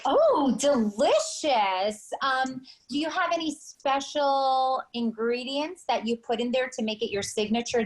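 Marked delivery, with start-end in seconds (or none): 0.1-2.1 loud oh, slow drawn delicious; exaggerated delight. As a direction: overplay how tasty it sounds. Host reacting to the dish.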